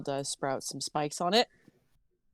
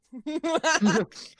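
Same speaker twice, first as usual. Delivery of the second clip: hiss; 8 semitones higher, 6 dB louder than usual. Acted. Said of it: "I hiss at him".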